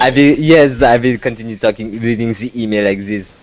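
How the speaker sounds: mock voice, loud at the start; put-on voice. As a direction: keep reading in the joke voice. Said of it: "I will talk like this".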